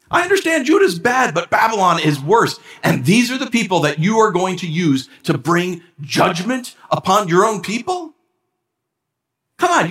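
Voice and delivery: high, incredulous protest to God; exasperated Habakkuk. Retold or imitated. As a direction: voice a prophet who can't believe it. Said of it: "he's, in a nutshell, saying".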